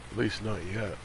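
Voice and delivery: ordinary delivery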